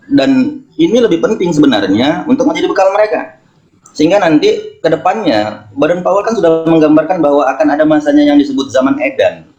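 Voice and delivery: talking around a candy in mouth; sucking a hard candy. Real, not acted. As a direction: speak with a sweet in the mouth. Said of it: "saya sambil ngemut permen ya".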